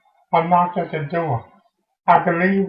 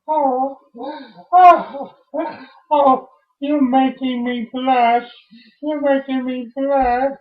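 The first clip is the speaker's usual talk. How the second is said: higher, fluttery bashful delight; coy, flustered; 4 semitones higher than usual. Acted. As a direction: act flattered and blushing. Flattered on meeting the online date.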